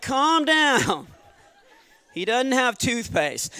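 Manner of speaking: amused deadpan with laughter; laughing retort. Retold or imitated. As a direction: reassure him through giggles. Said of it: "I was like".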